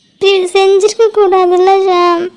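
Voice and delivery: slow, tearful pleading through sobs; crying. Acted. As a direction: cry out the reproach slowly. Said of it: "அழுதுட்டு இருக்காங்க போல".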